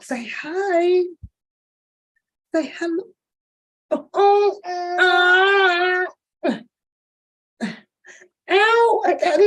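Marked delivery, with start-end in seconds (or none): 3.9-9.0 hammed-up higher louder wail; fake-cry to tease; mock cry. Grandma fake-wailing after the baby hits her.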